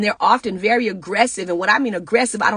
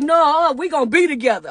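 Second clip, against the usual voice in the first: pushy aggressive partner; 7 semitones higher, 4 dB louder than usual. Retold or imitated.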